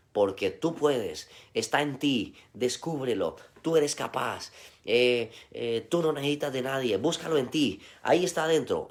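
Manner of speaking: a light send-up of a metaphysics preacher; mock self-help voice. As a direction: parody a self-help guru selling you on yourself. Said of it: "ese es el lenguaje de la metafísica".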